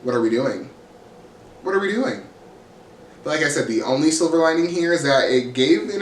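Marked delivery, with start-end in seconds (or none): 0.0-0.7 low-pitched, deadpan exasperation; exasperated question. Real, not acted. Exasperated question, repeated two ways. 1.6-2.2 high-pitched exasperation; incredulous question. Real, not acted. Exasperated question, repeated two ways.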